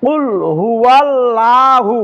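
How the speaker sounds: slow হুয়াল্লাহু with a thin, light 'laa'; common wrong reading. Shown as a demonstration. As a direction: draw out হুয়াল্লাহু, keeping the lam thin. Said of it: "আমরা এইভাবে অনেক সময় পড়ে থাকি". (হুয়াল্লাহু-র লাম পাতলা করে, টেনে)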